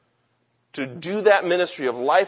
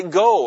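firm, louder command on "go"; 2 semitones higher, 6 dB louder than usual. Retold or imitated. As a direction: say "go" as an order. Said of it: "like Jesus is commanding us to go".

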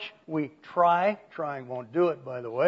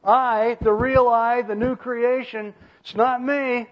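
higher, louder, insistent declaration; emphatic Paul; 7 semitones higher, 5 dB louder than usual. Acted. Preacher voicing Paul to a congregation, emphatic. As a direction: press each claim as Paul's firm protest. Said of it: "Paul says".

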